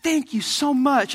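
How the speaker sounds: high, drawn-out fake gratitude; passive-aggressive thanks. Kid thanking parents for a disliked gift, passive-aggressive. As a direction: thank them slowly so the dislike shows. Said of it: "maybe in the passive aggressive way".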